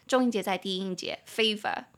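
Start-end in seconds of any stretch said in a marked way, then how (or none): 1.3-1.9 British accent. Shown as a demonstration. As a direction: say "favor" the British way. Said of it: "比较偏英式". (英式发音)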